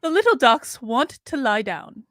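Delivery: lightly put-on snooty English accent; a hint of snooty English accent. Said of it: "That's my snooty accent".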